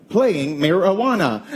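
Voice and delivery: slow assistant announcement. Retold or imitated. Siri mishears the dad's request, slow assistant voice. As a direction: imitate the assistant confirming, word by word. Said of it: "it's like".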